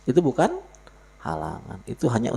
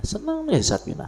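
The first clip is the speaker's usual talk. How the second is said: high sing-song; faster than usual. Acted. Preacher sings out name in high voice.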